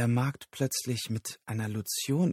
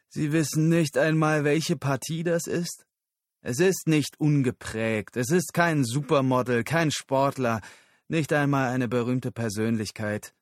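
raised, insistent captive's voice; agitated captive leader; 4 semitones higher, 3 dB louder than usual. Acted. Captive leader answers Susan about the cargo, agitated. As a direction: lift the voice, pressing each denial.

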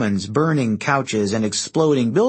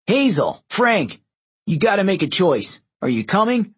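urgent calling; 7 semitones higher than usual. A narrator's reading. Urgent call to friends in battle.

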